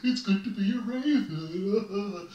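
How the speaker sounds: slow sing-song parody; mock cheery raven. Raven mocking the bear's chant, slow and sing-song. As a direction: make fun of the bear's chant.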